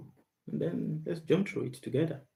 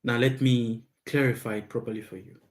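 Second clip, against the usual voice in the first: usual speaking voice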